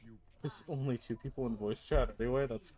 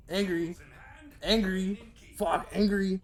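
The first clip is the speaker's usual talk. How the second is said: shouted angry; 5 semitones higher, 4 dB louder, slower than usual. Pretend. Repeating the line, rising.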